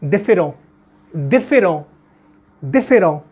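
différent as French dee-fay-RON, nasal, no t; French pronunciation. Shown as a demonstration. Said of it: "how to pronounce this word".

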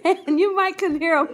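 talking through laughter, high and loud; loud laughing speech; cracking up. Real, not acted. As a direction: squeeze the words out between laughs. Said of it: "I can't believe I'm cracking up".

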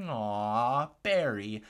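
drawn-out fawning "aw"; mock adoring coo. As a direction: coo like a smitten onlooker. Cooing crowd reacting to staged photo.

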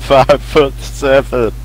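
loud, slow deadpan answer; meme answer. Retold or imitated. Answering the meme question loudly and slowly.

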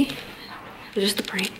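hushed teasing whisper; playful whispered tease. Acted. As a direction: breathe it like a secret. Teasing boyfriend, repeated line.

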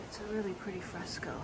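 hushed, fast whisper. Real, not acted. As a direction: whisper it inside the church. Whispering inside the old church.

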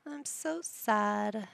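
drawn-out, hammed-up sadness; mock sad. Sad sim answering Grandma, slow and mock-mournful. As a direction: stretch it out slowly in pretend sorrow. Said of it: "why are you sad?".

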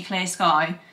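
ordinary delivery

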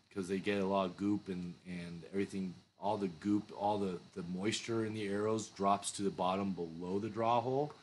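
talking around pipe stem; pipe in mouth. Real, not acted. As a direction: teeth clenched on pipe. Seen 1: Pipe held out at first; stem in mouth from 3.5s.

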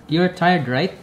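"right" lifted as a question; questioning tag. Shown as a demonstration. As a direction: check for agreement with rising "right". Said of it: "ask agreement or confirmation".

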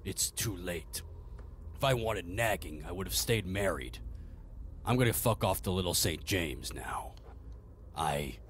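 low, dry and dismissive; a bored dark lord walking out; low villain voice. Acted. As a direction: master brushing off Fausti's pleading in a low voice. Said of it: "the lower voice".

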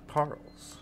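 breathy giggle; can't stop giggling. Real, not acted. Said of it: "I can't stop laughing".

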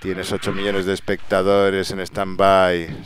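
ordinary delivery

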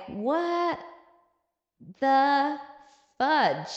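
word-by-word stunned reaction, long pauses; mock shock. Onlookers overhearing the confession, mock stunned.

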